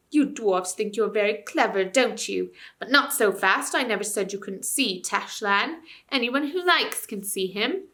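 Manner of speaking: lightly voiced sneering ape; sly ape. Ape sneering back at the dwarfs. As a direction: answer the dwarfs with a sly smirk.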